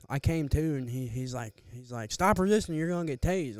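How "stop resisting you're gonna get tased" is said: imitated cop warning. Retold cop's warning during struggle.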